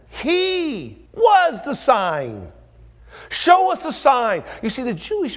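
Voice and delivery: high, loud and slow; full-force preaching cry; rising preaching shout. Real, not acted. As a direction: thunder it out from the pulpit.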